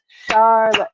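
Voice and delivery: Charlotte in two stretched beats, Char-lotte; syllable by syllable. Shown as a demonstration. Teacher on the last name, Charlotte syllable by syllable. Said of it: "clapping out the beats".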